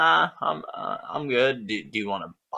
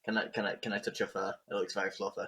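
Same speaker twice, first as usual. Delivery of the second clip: timid asking; 8 dB quieter, faster than usual. Acted. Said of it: "look at him and ask".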